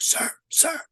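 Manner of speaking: hushed urgent whisper. Retold or imitated. Soldier whispering to his officer in the dark woods, hushed. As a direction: whisper it so nobody hears. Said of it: "he's like".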